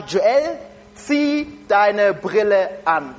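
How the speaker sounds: slow, firm motherly command; mother's instruction. Retold or imitated. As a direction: tell your son to put his glasses on. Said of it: "Mama hat mir eins gesagt".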